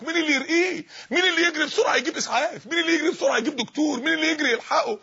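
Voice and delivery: lightly acted urgent plea; bystanders seeking help. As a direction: act out people calling for a doctor. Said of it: "والناس تحت بتقول".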